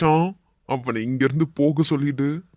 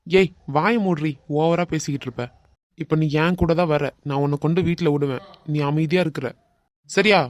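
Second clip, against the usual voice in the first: threatening. Acted. Man bullies girl.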